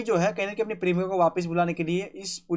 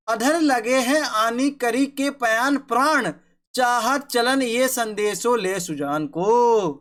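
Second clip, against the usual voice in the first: put-on slow, measured recitation of old verse; poem recitation; much slower than usual. Shown as a demonstration. Teacher reciting the first kavitt to his pupils, slow and measured. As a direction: chant each line slowly, savouring it. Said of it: "अभी पहला कवित मैं आपके सामने पढ़ूंगा".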